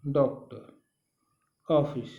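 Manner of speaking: डॉक्टर and ऑफिस with the vowel between आ and ओ; teacher modelling the borrowed ऑ vowel; open o sound demo. Shown as a demonstration. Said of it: "अ इस तरह से बोलते हैं".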